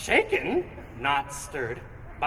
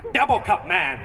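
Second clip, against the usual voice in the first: lightly voiced superhero intro, a touch higher; mock superhero announcer; 5 semitones higher than usual. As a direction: announce the villain like a comic-book narrator. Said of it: "sounds like a super name".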